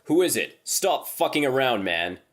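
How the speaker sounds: loud, high, panicked shout; terrified yelling. Retold or imitated. Scared friends yelling at the voice outside the door, loud and panicked. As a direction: yell through the door in terror. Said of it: "We keep yelling outside".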